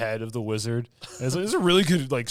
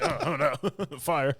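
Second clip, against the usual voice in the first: laughing mock panic; 5 semitones higher than usual. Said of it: "He's like".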